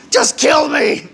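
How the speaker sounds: slow, laughing, mock-desperate shout; laughing plea. Real, not acted. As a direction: beg through laughter.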